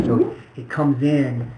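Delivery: drawn-out slow delivery; slowed-down demo read. Shown as a demonstration. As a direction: stretch the words out slowly. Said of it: "timing demo".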